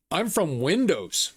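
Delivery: slow, lightly put-on Indian accent; imitated Indian accent. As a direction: imitate an Indian-accented scam caller, slowly. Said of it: "It was an Indian accent".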